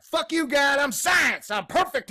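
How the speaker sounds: high, loud mocking yell of cocky science; sneering mock proclamation; arrogant mock shout. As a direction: shout it like a bragging bully.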